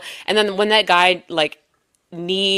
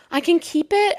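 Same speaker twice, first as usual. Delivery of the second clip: high-pitched amazed question; 9 semitones higher, 5 dB quieter than usual. Retold or imitated. Quoting amazed festivalgoer.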